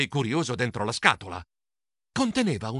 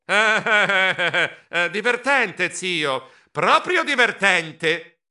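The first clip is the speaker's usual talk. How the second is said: embarrassed mumble; 4 semitones higher, 4 dB louder, much slower than usual. Acted. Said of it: "borbottai imbarazzato".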